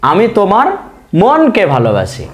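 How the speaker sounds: drawn-out classroom demo; slow sentence read for students to copy; slow example. Shown as a demonstration. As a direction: read আমি তোমার মনকে ভালোবাসি slowly with stress on মনকে. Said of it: "র উচ্চারণ হলো".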